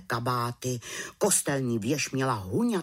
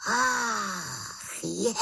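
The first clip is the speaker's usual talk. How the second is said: high sudden Ach je of realisation; slapping her forehead, dawning surprise; high startled ach je; realising exclamation; 8 semitones higher than usual. Acted. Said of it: "zvolala malá čarodějnice".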